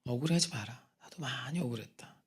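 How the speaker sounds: soft voice of God. Retold or imitated. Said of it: "그래서".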